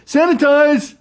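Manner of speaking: barked order. Retold or imitated. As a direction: bark it like a fed-up clerk. Store clerk barking at customers.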